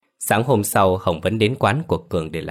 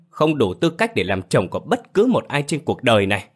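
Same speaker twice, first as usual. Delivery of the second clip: gào lớn hơn nữa; 5 semitones higher than usual. Acted. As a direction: escalate the yell. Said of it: "Hồng gào lớn". (gào to, lên cao giọng)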